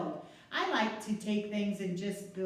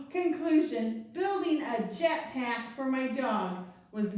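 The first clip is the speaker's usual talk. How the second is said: put-on expressive read-aloud for kids; story narration. A narrator's reading. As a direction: read it like a picture book at story time. Reads the picture book aloud.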